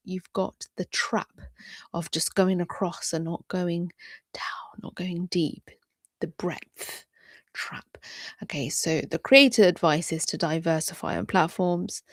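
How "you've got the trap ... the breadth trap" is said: whisper. Acted.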